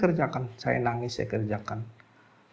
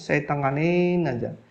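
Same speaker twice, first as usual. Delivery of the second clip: ordinary delivery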